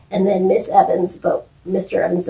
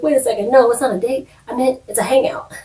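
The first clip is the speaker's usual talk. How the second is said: flustered denial; 5 semitones higher, faster than usual. Retold or imitated.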